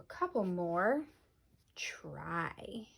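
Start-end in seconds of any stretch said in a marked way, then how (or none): 1.7-2.9 whisper. Real, not acted. Teacher offers next word.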